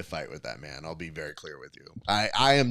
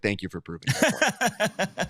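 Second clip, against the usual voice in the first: much higher mock-sweet thanks; overly sweet, pitched way up; sarcastic high sweetness; 9 semitones higher than usual. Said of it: "I was like".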